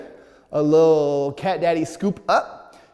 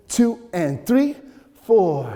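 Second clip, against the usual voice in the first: slowly counted out; 3 semitones higher, much slower than usual. Shown as a demonstration. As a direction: stretch the count out slow. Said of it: "First, we'll do it slow".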